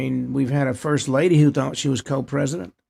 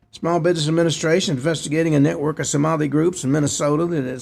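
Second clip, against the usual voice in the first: reading a news report aloud; steady read-off-the-page news delivery. Real, not acted. Host reads out the nativity scene report, news read.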